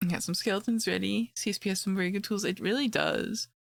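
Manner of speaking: raspy, just-woke-up voice; hoarse from being sick. Real, not acted. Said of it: "my raspy voice is from me just waking up".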